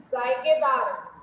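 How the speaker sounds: जायकेदार slowly with a buzzing z, zaikedaar; z sound. Shown as a demonstration. Teacher slowly demonstrating the z in जायकेदार. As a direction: stretch जायकेदार and hiss its first sound like z. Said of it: "इसके उच्चारण में जीभ".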